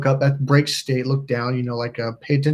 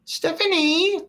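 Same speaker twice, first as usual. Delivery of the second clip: high-pitched sing-song name call; mom's calling voice; 4 dB quieter, slower than usual. Retold or imitated. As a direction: call it out high, stretching the last syllable. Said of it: "it was her mom's voice".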